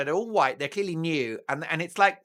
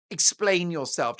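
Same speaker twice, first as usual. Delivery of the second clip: imperious Harry. Retold or imitated. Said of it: "He's imperious".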